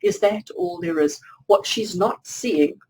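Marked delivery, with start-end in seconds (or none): 0.0-1.2 lower, mock-bored grumble; bored and irritated. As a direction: act out mild irritation at being let down. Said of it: "a little bit bored and irritated".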